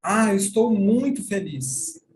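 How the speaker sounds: exemplo falado. Shown as a demonstration. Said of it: "Por exemplo".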